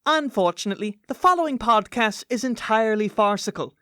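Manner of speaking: measured, scripted mock-warning read; podcast intro narration. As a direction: deliver a solemn disclaimer with tongue in cheek.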